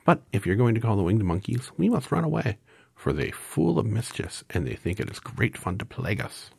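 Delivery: very high, tiny squeak; squeaky mouse voice. A narrator's reading. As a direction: squeak like a little mouse queen. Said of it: "in her squeaky little voice".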